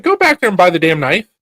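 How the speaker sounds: husband teasing wife to buy the knife, loud and high; mock urging. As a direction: egg her on to buy it. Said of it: "I was like".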